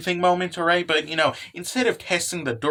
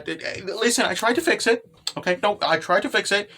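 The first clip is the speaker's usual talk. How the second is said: mildly flustered stammering excuse; cute panic. Acted. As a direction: act a touch panicky, hesitating through a confession. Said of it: "goes into basically just panic mode".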